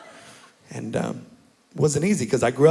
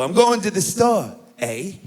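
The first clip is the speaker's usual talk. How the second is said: put-on Canadian accent; 4 semitones higher, slower than usual. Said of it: "They always go".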